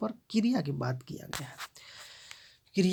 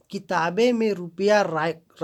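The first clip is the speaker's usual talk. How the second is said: किताबे said louder, slowly; stress on किताबे; 5 dB louder, slower than usual. Shown as a demonstration. Teacher demonstrating noun stress, किताबे pressed. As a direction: dwell on किताबे with weight. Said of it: "संज्ञा पर जोर दिया जा रहा है".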